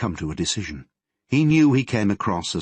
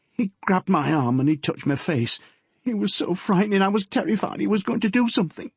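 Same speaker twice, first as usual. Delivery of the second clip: put-on higher, hurried scared girl; reliving the fright to her dad; frightened daughter; 11 semitones higher than usual.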